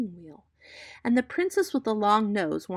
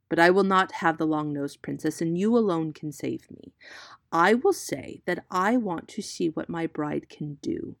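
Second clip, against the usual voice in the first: louder, urgent plea to be saved; urgent prince; 5 dB louder than usual. Acted. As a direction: press it hard, a prince begging for rescue. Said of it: "said the prince".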